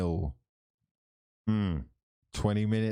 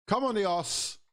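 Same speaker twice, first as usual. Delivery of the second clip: fan cheer; 11 semitones higher than usual. Real, not acted. Cheering his team on.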